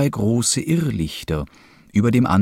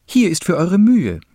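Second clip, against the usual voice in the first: high-pitched call from the travellers; 8 semitones higher, 3 dB louder than usual. A narrator's reading. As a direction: call it out in a much higher voice. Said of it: "riefen die Reisenden". (mit hoher Stimme gerufen)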